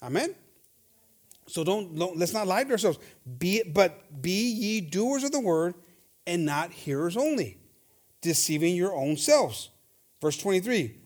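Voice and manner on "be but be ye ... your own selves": slow, deliberate Bible reading; solemn, slow scripture quote. Acted. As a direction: read the verse slowly, letting each phrase land.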